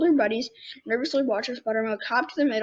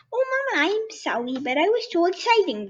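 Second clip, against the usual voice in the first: higher, breathless little apology; excited bunny child; 6 semitones higher than usual. Acted. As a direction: hop with excitement.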